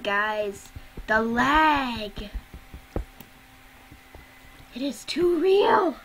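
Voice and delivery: talking while chewing popcorn; words round a mouthful of popcorn; munching popcorn. Real, not acted. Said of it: "Sorry, eating popcorn".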